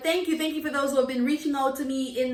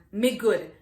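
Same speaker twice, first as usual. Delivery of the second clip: Me good in Jamaican patois; 2 semitones lower than usual. Shown as a demonstration. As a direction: answer in patois. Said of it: "how do I answer them".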